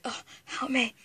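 breathy mock pleas for help; fluttering cries for help. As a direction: whimper help me like a damsel. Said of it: "you better just go".

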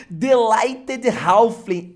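slow, loud, drawn-out card name; excited. Real, not acted. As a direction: savor the name, thrilled. Names the card, still thrilled.

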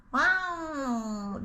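drawn-out mock wail with puckered lips; imitated baby-like cry. Owner shows how the cat yelled, mock baby cry. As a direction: mimic a cat crying like a baby. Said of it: "dudaklarını böyle şey yaparak".

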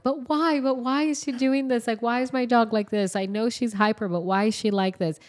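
put-on high little-girl voice pleading with the vet; imitating a little girl. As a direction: keep asking why like a small kid. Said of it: "the little girl is just talking like".

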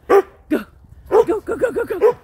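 high, loud go go go; excited urging. Real, not acted. Owner cheering dog to run, excited.

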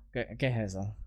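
low, soft sinister villain voice; mustache twirling villain. Acted. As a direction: menace it like a sneering villain. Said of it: "vamos a poner la voz".

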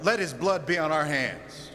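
restrained cry rising out of a hush; crowd's cry. Acted. Preacher voicing those plotting against their pastor, restrained cry. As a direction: lift the crowd's oath a little, gravely. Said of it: "you cried out".

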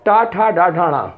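retroflex टा ठा डा ढा णा said slowly and clearly; teacher drilling retroflex sounds; slow careful demo. Shown as a demonstration. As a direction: spell out टा, ठा, डा, ढा, णा one by one. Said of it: "अभी रुक जाइएगा अभी पे".

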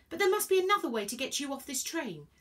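high, urgent insistence; moderately loud urgent plea; yelling. A narrator's reading. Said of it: "Virgo yelled".

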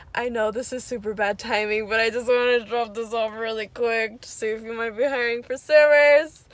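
breathless after rushing in; out of breath. Real, not acted. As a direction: speak while short of breath. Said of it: "I'm out of breath".

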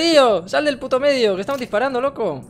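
loud, high, annoyed shout; angry yell. Real, not acted. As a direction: yell at him to get out. Teammate blocking the line of fire.

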